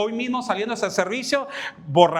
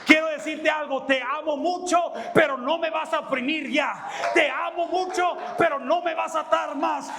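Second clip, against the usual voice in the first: raised, insistent refusal; preaching a firm boundary; firm preached declaration; 3 semitones higher than usual. Acted. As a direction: say it like drawing a line.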